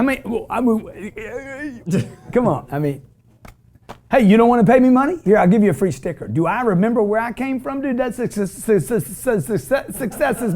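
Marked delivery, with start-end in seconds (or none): 4.1-6.3 fast, louder, mocking a cheap hustler's offer; mock sales pitch.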